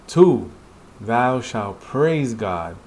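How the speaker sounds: measured, solemn recital; slow solemn reading. Acted. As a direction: read each commandment slowly and gravely. Reading commandments in the manhwa.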